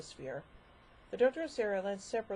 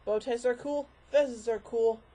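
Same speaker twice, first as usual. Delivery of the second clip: quirky Doctor voice; 3 semitones higher, 6 dB louder, much slower than usual. Pretend. String of Doctor catchphrases.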